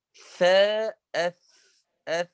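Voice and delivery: أف with the breath of the ف clearly audible; whispered letter demo. Shown as a demonstration. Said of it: "هذا الصوت". (نطق الفاء الساكنة في أف بجريان النفس)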